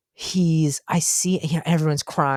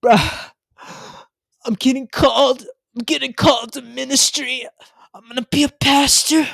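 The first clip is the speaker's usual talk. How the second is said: put-on much higher and louder, thrilled teen voice; excited kid; 10 semitones higher, 4 dB louder than usual. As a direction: burst out like a kid sure he's been called. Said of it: "and he's like".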